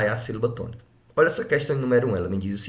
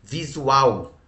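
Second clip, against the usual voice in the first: "Visual" with its final syllable punched louder; stress on last syllable; 3 semitones higher, 3 dB louder than usual. Shown as a demonstration. Teacher showing pupils where the sound is strongest, final-syllable stress on "Visual". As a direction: lean hard on the end of "Visual". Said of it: "o som é mais forte".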